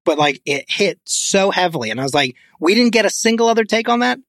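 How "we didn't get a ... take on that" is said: higher-pitched disbelief at a missed retake; mock incredulity. Listener reacting to the actor's one bad word, incredulous.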